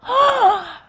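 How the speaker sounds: loud, high theatrical gasp; shocked gasp. Acted. Lawyer reacting to wife's discovery, shocked gasp. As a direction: gasp in mock horror.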